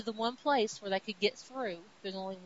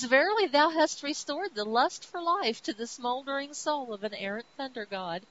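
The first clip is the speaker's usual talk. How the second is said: louder, higher hammed-up archaic declaration; grand Thor; 4 semitones higher, 5 dB louder than usual. Thor thanking Sif, in a booming archaic mock speech. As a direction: proclaim it like a thundering god. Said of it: "And Thor says".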